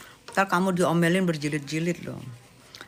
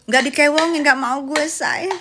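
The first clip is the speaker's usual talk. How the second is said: camp sassy voice; 5 semitones higher, 4 dB louder than usual. Acted. Camp slang voice.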